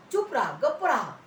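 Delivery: swooping, emphatic order to be silent; imitated hushing. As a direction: hush a noisy beggar. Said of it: "आंधळ्या भिकारी माणसाला म्हटले". (गप्प करणारा दटावणीचा सूर)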